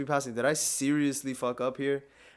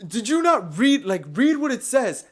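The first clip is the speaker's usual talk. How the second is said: mock cop; 8 semitones higher, 6 dB louder than usual. Cop scolds him.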